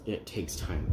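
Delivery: self-reassurance. Real, not acted. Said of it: "all I gotta keep telling myself".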